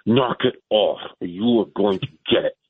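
harsh hissed warning, barely voiced; whisper yell. Shown as a demonstration. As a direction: scold hard but under your breath. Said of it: "I'm pretty good at the whisper yell".

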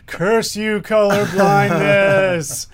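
slow hammed-up curse at fate; mock curse. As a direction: shake a fist at the sky, slowly and in jest. Mock curse at own colorblindness.

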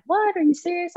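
high, incredulous retold question; mock disbelief. Best friend hearing about the commitment, shocked. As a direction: imitate a friend's shocked reaction. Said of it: "And she was like".

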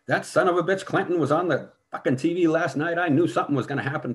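mock angry yelling mother; retold mom screaming. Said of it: "she's screaming through the fucking receiver".

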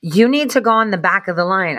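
mock flamboyant bossy voice; flamboyant dude. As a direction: imitate a flamboyant man ordering someone back, stretching the words. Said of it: "flamboyant dude".

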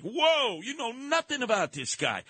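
high, incredulous whoa; imitating a startled warning; mock alarmed quote. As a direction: act out the skeptic. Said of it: "I'm like".

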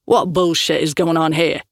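lightly voiced burly thug, a hint of menace; a touch of rough bloke squaring up; thug's challenge. Burly thug confronting the film crew, lightly gruff. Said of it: "he asked".

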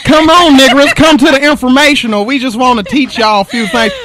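high, loud fake-friendly recruiter; hammed-up Klan recruiter calling out an invite; mock Klan recruiter. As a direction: lure them in like a shady Klan recruiter. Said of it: "It's a setup".

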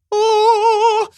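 high angelic sung oh; heavenly sung oh. Retold or imitated. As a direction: sing it like a choir from above. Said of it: "suddenly the voice broke forth".

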